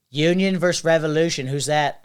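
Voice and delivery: put-on half-hearted Boston accent; bad Boston accent. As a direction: attempt his Boston accent, not very well. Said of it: "a bad version of his accent".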